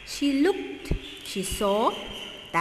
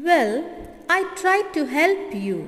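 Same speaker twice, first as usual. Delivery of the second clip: muttered; 5 semitones higher, 4 dB louder than usual. Acted. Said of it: "muttered the chameleon".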